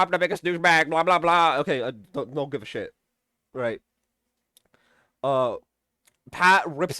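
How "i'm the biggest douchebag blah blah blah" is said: a lightly voiced, smug braggart with a bit more volume; mock him as a pompous blowhard; hammed-up imitation of a self-important jerk; mocking Sylvester. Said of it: "continues to be blah, blah, blah".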